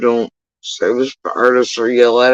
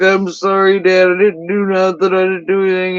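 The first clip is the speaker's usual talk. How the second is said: mock crying son; 5 semitones higher than usual. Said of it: "and he's all crying, and he's like".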